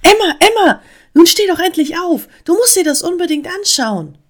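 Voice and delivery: loud, high-pitched, impatient wake-up call; eindringliches Rufen. A narrator's reading. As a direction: urge a sleepyhead to get up. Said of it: "rief die Stimme eindringlich". (ungeduldig und laut wachrufen)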